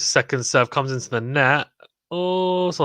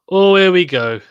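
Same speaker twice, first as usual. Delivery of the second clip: higher and louder, real excitement; excited; 6 semitones higher, 6 dB louder than usual. Real, not acted. Watching Murray's big point on stream, excited outburst. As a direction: jump up as the point starts.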